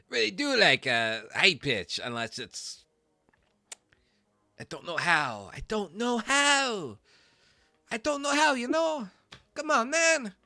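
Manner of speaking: squeaky high-pitched voice, loud. Shown as a demonstration. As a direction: push the voice way up high. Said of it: "I can do deeper voices".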